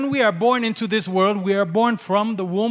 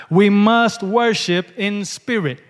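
slow, louder, leaning on "must"; stress on must; 4 dB louder, slower than usual. Shown as a demonstration. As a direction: drive home the word "must". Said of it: "emphasize the word must".

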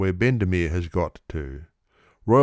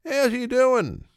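anguished friend; slower than usual. A narrator's reading. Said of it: "screams one of his friends".

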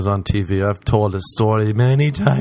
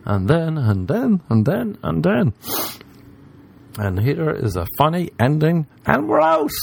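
high, sing-song parody of a by-the-numbers set; mock rote stand-up; 4 semitones higher than usual. Comedian mocking formulaic stand-up, in a high, sing-song parody. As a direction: rattle through the beats, then toss off the ending. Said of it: "done beat for beat".

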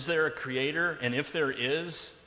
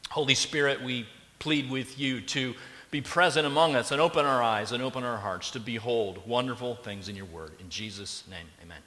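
prayer. Acted. Pastor prays before sermon.

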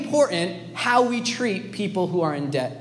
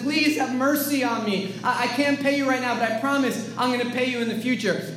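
lightly acted, earnest plea; pleading; 4 dB quieter than usual. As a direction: plead for time, mildly acted. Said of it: "gets on his knees and pleads".

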